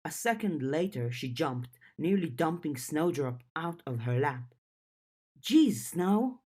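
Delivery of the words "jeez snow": higher, louder startled cry; startled yelp. Acted. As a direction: jump at the nip and yelp. Startled by a nip.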